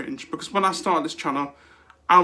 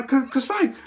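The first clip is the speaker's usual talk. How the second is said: ordinary talk, nothing marked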